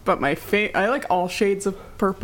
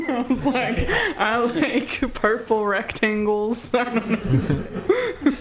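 loud breathing into the mic; heavy nose breathing; 4 semitones higher than usual. Real, not acted. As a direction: breathe heavily through the nose while talking. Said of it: "Kylie, quit breathing so loud into the mic".

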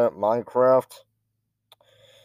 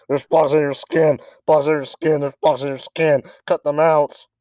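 creepy high voice; 5 semitones higher than usual. Pretend. Quoting creepy meme voice.

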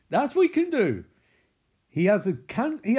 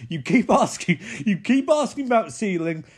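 loud, punchy exasperated outburst; hammed-up complaint, pushed louder; mock exasperation; 3 semitones higher, 5 dB louder than usual. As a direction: imitate someone at the end of their tether. Larry's acted angry outburst.

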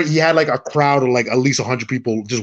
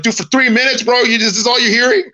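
incredulous; 9 semitones higher than usual. Retold or imitated. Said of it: "I'm like".

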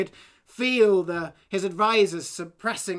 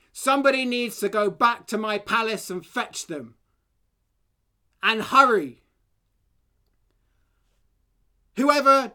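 bellowing king. Acted. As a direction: boom it to the army. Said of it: "The king bellowed".

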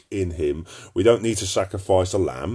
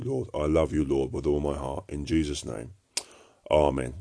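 closing prayer. Acted. Preacher praying over his message for the listeners, devoutly.

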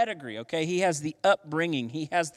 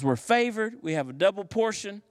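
boastful; 4 semitones higher than usual. Retold or imitated. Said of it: "he is smack talking".

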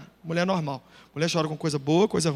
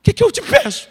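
exasperated question; 13 semitones higher, 8 dB louder than usual. Retold or imitated. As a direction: stretch it out in mock exasperation. Rhetorical outburst to God.

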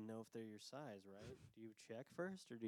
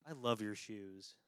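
passive aggressive; 2 semitones lower, slower than usual. Retold or imitated. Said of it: "the most passive aggressive".

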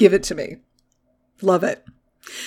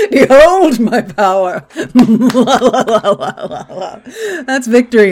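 megalomaniac rant; 4 semitones higher, 4 dB louder than usual. Pretend. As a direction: cackle like a triumphant villain. Villain gloating at partner.

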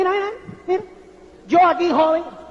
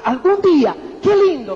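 louder, delighted "algún día"; delighted dreaming; 5 dB louder than usual. Retold or imitated. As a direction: savour the dream out loud. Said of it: "cuando tú dices".

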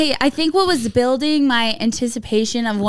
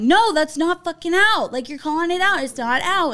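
higher-pitched indignant protest; retold telling-off; 5 semitones higher than usual. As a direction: argue the call, imitating outrage. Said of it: "letting him have it".

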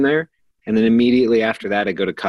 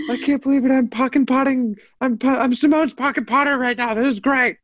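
excited. Real, not acted. Thrilled to be on podcast.

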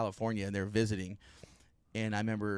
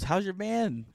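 higher-pitched imitation of grandma; grandma's voice; 10 semitones higher, slower than usual. Grandma asks grandson about his band, imitated high voice. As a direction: lift it into a light grandma voice. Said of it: "and she goes".

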